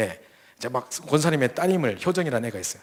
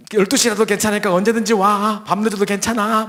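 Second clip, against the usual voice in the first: higher, louder urgent plea; eager insistence; 6 semitones higher, 6 dB louder than usual. Retold or imitated. Deaconess pleading on the phone: higher, louder urgency. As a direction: grab him before he cancels.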